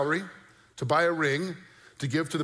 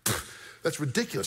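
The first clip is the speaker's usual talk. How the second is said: imitated dismissive snort, then mild scolding. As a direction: scoff with a puff, imitating a scolding wife. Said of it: "She snorted, right? She scolded".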